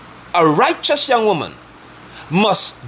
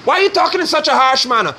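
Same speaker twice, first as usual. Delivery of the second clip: mock whiny man; 3 semitones higher than usual. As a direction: shout it like a touchy man. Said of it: "you sound when you do that".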